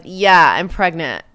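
slow, loud, dry sarcasm; sarcastic. Retold or imitated. Lucy sarcastically answering her nosy coworker. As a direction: drag it out like it's obviously absurd. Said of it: "And sarcastically".

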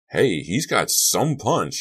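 high, slow, swooping amazement; impressed exclamation. A narrator's reading. Bugner remarks to O'Brien, drawn-out amazement. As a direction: marvel loudly at the punch.

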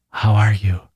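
a touch of tremble with a forced smile; nervous, strained greeting; trembling voice. A narrator's reading. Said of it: "said in a trembling voice, with a forced smile".

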